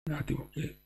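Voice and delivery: hoarse, breaking voice; croaking through a lost voice; raspy whisper. Real, not acted. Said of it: "mi è andata via la voce".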